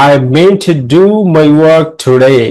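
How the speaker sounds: slow read, meant and work stressed; stress demo. Shown as a demonstration. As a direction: model the sentence slowly, leaning on meant and work. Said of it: "এই meant-টা হচ্ছে stress syllable".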